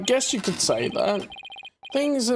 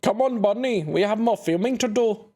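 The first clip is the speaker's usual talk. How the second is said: laid-back dude voice. Acted. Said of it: "should I be giving him this accent".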